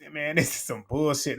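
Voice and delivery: mock laugh through the words; laughing in disbelief. Serena laughing at the video, about to tweak out. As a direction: laugh it off, but you're about to snap. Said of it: "Laughing like".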